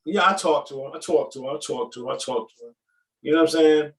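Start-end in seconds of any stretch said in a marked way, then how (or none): 0.3-2.7 "talk" with a rounded aw; imitated northern "talk". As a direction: repeat it, leaning on the aw in "talk". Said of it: "y'all say talk".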